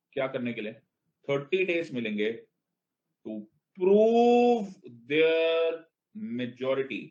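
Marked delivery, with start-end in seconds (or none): 3.8-5.7 "prove" shouted high and loud; stress on prove. Shown as a demonstration. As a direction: punch "prove their" hard. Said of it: "language पकड़ो बेटा". ("prove" पर ज़ोर, ऊँचा और तेज़)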